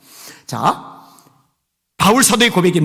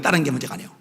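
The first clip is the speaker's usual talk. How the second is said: softer echo; 5 semitones lower, 6 dB quieter, much faster than usual. Shown as a demonstration. Preacher repeats point softly.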